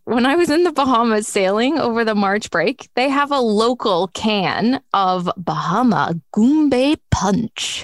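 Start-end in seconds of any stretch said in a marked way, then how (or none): 2.9-7.8 bad Bahamian accent. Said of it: "Terrible accent there".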